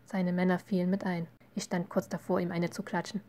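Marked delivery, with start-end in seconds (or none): none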